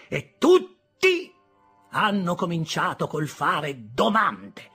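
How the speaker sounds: high, loud scolding, slowing at the moral; stern sister hammering the moral; angry lecture. Acted. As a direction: lecture the boy to frighten him.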